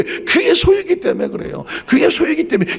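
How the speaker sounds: preacher crowning his point over the music; soaring climax. Acted. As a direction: pitch leaps up on 그의 소유이기, falling at the end.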